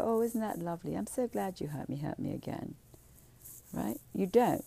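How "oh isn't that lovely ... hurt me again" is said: sarcastic sweetness. Retold or imitated. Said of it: "you don't go".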